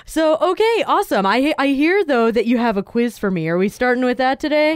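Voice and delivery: slurred, mushy speech; words running together, slurring. Real, not acted. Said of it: "how you're slurring all your words today".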